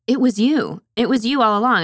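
high, loud mock revelation; hammed-up accusing discovery; dramatic accusation. Acting Roxanne's dramatic accusation.

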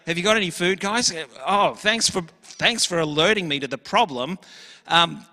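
breezy, offhand asking with a lift at the end; casual suggestion. Pretend. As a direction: make it sound like a friendly suggestion, not an order. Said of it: "That's not at all what Jesus is saying".

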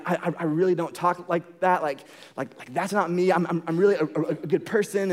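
flustered apology. Retold or imitated. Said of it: "they're like".

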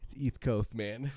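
whispered "East Coast" with lisp, "iθ kʰoʊθ". Shown as a demonstration. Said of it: "I've been saying it forever like that".

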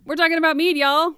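high, loud whoop of a reveal; excited reveal. Real, not acted. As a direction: announce it like big news to the gang. Excited reveal of nectar meaning mead.

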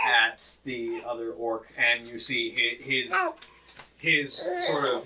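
slow, deliberate scene-setting; game master narration. Acted. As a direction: narrate the spell step by step, unhurried.

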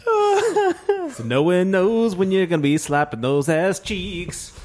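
words squeezed out through laughter; laughing. Real, not acted. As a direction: talk while cracking up, slow. Laughing hard mid-sentence.

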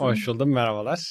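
hoarse from a dry cough; sick, hoarse throat. Real, not acted. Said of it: "Kuru öksürüğünle bizimlesin". (öksürükten boğuk ses)

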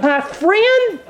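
laughing, slow incredulous question; amused astonishment with a laugh; laughing disbelief. Retold or imitated. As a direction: chuckle through the shock. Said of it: "I'm like".

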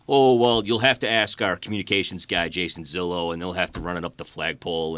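polite corporate brush-off. Retold or imitated. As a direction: stiff company-line voice. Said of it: "gave me the standard company line".

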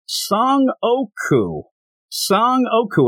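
high, drawn-out roll call; calling out a name. Retold or imitated. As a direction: call for a missing fighter, stretching the name. Reading roll, calling for missing fighter.

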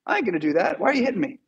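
lightly voiced, casual donkey protesting; a hint of a whiny dude donkey; talking donkey. Beaten donkey complains to Balaam, lightly voiced. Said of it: "he turns around and says".

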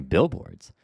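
amused disbelief, pitch leaping up; mock disbelief. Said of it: "laughing over here going".

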